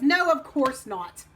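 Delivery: a hint of a dad laying down the law; firm frog dad. Dad turns Frog down, firm.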